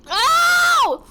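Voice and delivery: high loud ow; real pained yelp; sharp yelp of pain. Real, not acted. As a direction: cry out at the sting. Spice on lip.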